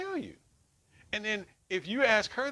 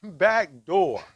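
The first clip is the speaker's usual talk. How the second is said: loud, mechanical alarm voice; alarm announcement; 2 semitones lower, 7 dB louder than usual. Retold or imitated. Man retelling the night the alarm spoke, mock robotic announcement. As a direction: imitate the house alarm calling out the door. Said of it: "and we hear".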